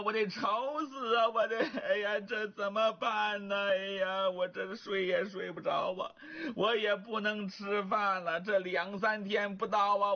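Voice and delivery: mild tearful fretting, a touch of crying; weepy fretting. Acted. Wife frets tearfully to her husband, a touch of crying. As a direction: fret half-tearfully, lightly acted. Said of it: "开始抹眼泪了".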